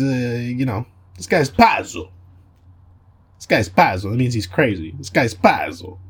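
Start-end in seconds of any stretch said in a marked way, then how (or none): 1.2-4.1 lightly put-on Italian accent; a hint of Italian on "pazzo". Shown as a demonstration. Demonstrating slang for a crazy guy, Italian accent. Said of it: "That's how I'm gonna say it". 5.0-6.0 a touch of Italian accent; lightly Italianize "pazzo". Shown as a demonstration. Showing how he'll say it, Italian accent. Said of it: "That's how I'm gonna say it".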